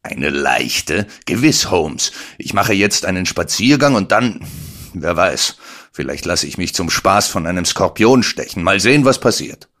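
sarcastic retort building from even to loud and high; snorting sarcasm. Acted. Watson storming off, sarcastically fed up with Holmes. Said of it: "Ich schnaubte förmlich".

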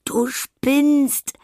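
very high, loud gasp through laughter. Acted. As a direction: gasp it out while still laughing. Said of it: "japst Anna".

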